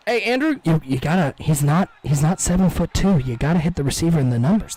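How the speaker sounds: loud, exasperated coaching yell at a player; yelling at the screen. Real, not acted. Streamer yelling advice at the quarterback on screen, exasperated. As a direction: bark advice at the TV.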